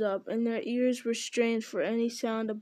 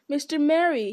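louder, higher cry of surprise; surprised cry; 4 semitones higher, 5 dB louder than usual. Acted. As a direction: cry out in astonished relief. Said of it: "he cried".

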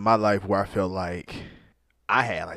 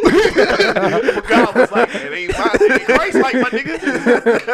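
high, drawn-out words through laughter; helpless real laughter over a mock quote; cracking up; 13 semitones higher, 7 dB louder, slower than usual. Real, not acted. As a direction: barely get the joke out for laughing. Joking quote of God, cracking up.

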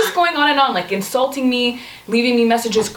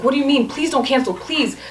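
retold begging; 3 semitones higher than usual. Woman retells her date's pleading texts, mock begging. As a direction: imitate a man begging by text. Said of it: "like, begging".

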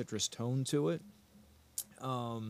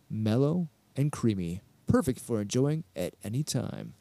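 smooth, measured whisky ad voice; mellow ad read. Acted. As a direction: read it like a mellow liquor commercial. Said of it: "Not as mellow as your voice".

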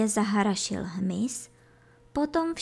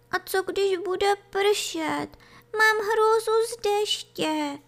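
high, whiny little voice; wailing kid goat; 12 semitones higher than usual. A narrator's reading. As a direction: whimper it high, dreading the rain. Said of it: "naříkalo kůzle". (naříkavě, vysokým hláskem)

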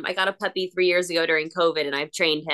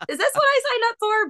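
mock exasperation; faster than usual. Wondering while changing diaper.

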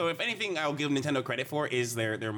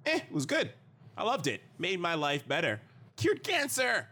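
fake gushing reviewer; 5 semitones higher than usual. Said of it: "someone saying".

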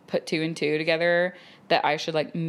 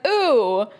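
high, louder, drawn-out curious ooh; nosy flight attendant; 8 semitones higher, 3 dB louder, slower than usual. Retold or imitated. Flight attendant asking about the book, high and eager. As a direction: coo it like a nosy older lady. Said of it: "she's all like".

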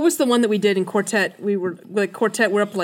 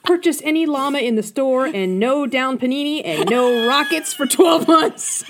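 ad announcer voice; 4 semitones higher, 3 dB louder, slower than usual. Acted. Reading silly Mad Lib ad.

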